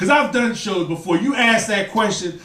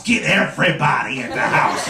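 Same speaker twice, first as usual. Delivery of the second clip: excited call; 6 semitones lower than usual. Retold or imitated. Woman calling friends over.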